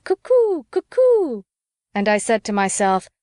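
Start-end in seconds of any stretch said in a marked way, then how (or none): 0.0-1.4 croaked cuckoo call. Acted. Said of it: "flapped his hands and croaked".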